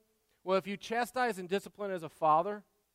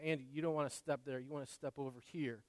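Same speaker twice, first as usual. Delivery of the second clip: gentle guiding; 5 semitones lower, 10 dB quieter, faster than usual. Shown as a demonstration. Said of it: "in a way that I'm showing you".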